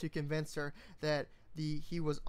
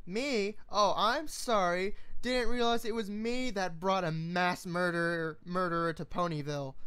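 loud mocking sarcasm; sarcastic; 4 dB louder than usual. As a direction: throw it back sarcastically. Sarcastic retort.

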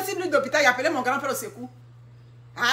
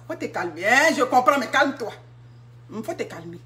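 soothing. Retold or imitated. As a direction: settle them down gently. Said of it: "C'est ce qu'elle peut te dire".

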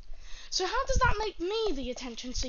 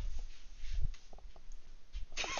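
short quiet laugh; 6 dB quieter than usual. Retold or imitated. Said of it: "I just fucking burst in laughter".

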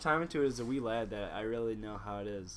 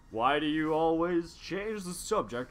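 hammy polite cartoon robot; sophisticated Mega Man; 2 semitones higher than usual. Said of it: "I like your sophisticated Mega Man".

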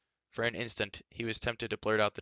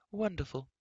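high, airy exclamation of a pleased queen; delighted cry; 8 semitones higher than usual. A narrator's reading. Queen Teleria approving the new cloak, delighted cry. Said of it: "Teleria cried".

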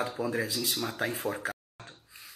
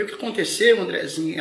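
loud, high alarmed call; alarmed shout; 5 semitones higher, 7 dB louder than usual. Retold or imitated. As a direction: cry out in alarm to the boy. Preacher voices his alarm.

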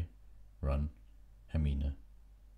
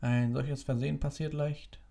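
gentle; 10 semitones higher than usual. A narrator's reading. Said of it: "sagte Dumbledore sanft".

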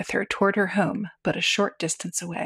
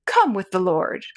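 orotund voice. Acted. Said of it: "in an orotund voice".

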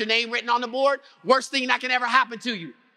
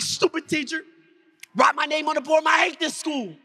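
sulky anger; 5 semitones higher than usual. Acted. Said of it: "I'm so mad".

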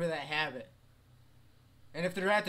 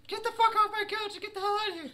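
angry character voice; 5 dB louder than usual. Pretend.

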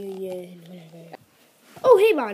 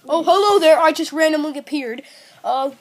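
chirpy character voice; 6 semitones higher, 6 dB louder than usual. Acted. New character appears.

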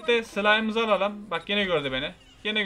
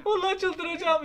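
higher, laughing in disbelief; exasperated laugh; 12 semitones higher, 6 dB louder, slower than usual. Real, not acted. Laughing at his own mistake, higher and exasperated. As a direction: laugh it off, going mad.

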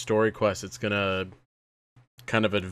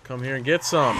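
taunting shout; 4 semitones higher than usual. Real, not acted. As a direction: dare him to come closer. Taunting enemies in a fight.

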